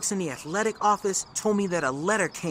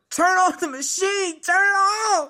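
high-pitched, panicked yell, louder at the end; frantic holler; 12 semitones higher, 4 dB louder than usual. Retold or imitated. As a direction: re-enact crying out for help in alarm. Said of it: "and I hollered".

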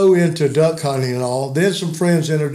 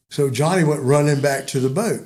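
ordinary talk, nothing marked

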